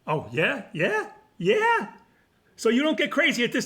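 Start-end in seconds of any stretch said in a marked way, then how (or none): 0.0-1.9 sarcastic yeah. Acted. Husband challenging wife's denial.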